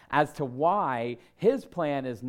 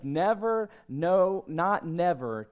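high, loud, emphatic denial; cocksure, raised-voice protest; confident refusal; 6 semitones higher, 4 dB louder, slower than usual. Retold or imitated. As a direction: hammer out each negative with total certainty. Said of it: "Peter is so confident".

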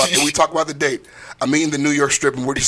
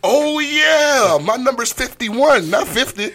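laughing; 10 semitones higher, slower than usual. Real, not acted. Admitting number, laughing.

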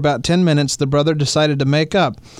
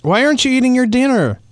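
high, odd sing-song question; weird high reading; 6 semitones higher, faster than usual. Shown as a demonstration. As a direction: read it in a strange high voice. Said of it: "Let me try that again. I sounded weird".

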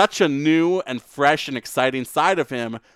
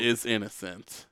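honeyed southern lawyer drawl; 3 semitones lower, 9 dB quieter than usual. Pretend. Courtroom lawyer speech.

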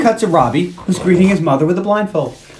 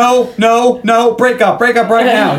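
raised-pitch, insistent repeated order; mock insistence; 4 semitones higher, slower than usual. Dad ordering a young couple to split, mock insistent. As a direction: imitate a dad putting his foot down. Voicing Cal ordering a breakup.

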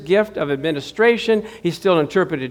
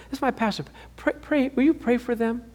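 soft eager request; 6 semitones higher, 7 dB quieter than usual. Retold or imitated. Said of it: "She said".

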